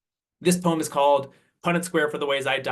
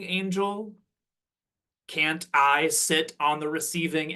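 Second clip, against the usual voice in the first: slow, measured spoken-word delivery, lines set apart by pauses; poetry recital; 2 semitones higher, slower than usual. Acted. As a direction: recite your poem deliberately, word by word. Reads own poem aloud to audience.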